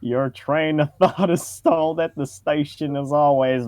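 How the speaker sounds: usual speaking voice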